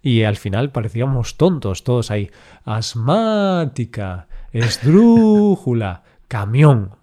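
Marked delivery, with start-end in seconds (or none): 2.6-7.0 classroom recitation. Retold or imitated. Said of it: "Yo recuerdo las clases de acentuación".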